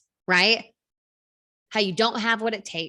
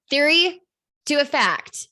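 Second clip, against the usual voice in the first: loud emphatic call; 7 semitones higher, 7 dB louder than usual. Real, not acted. Coach hammering the key step to her audience, loud and high.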